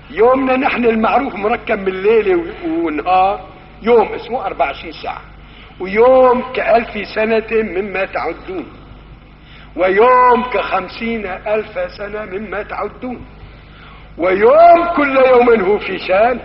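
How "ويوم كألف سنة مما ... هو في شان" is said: building sermon cadence. Acted. Preacher listing the days, slow building proclamation. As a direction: let each day swell toward the last.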